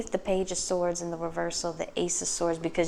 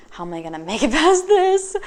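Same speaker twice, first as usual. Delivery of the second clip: higher and louder, laughing hammed-up whine; over-the-top exasperated wail; laughing mock despair; 8 semitones higher, 9 dB louder than usual. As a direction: whine it like you're at the end of your rope. Mock desperate viewer quote.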